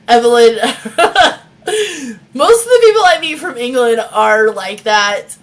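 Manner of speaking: slow words through laughter; laughing. Real, not acted. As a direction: laugh while you say it. Laughing about English swearing.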